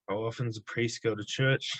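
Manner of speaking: put-on a light, calm Australian accent as Tuivasa; Tuivasa's Australian accent. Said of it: "say this in the Tuivasa Australian accent".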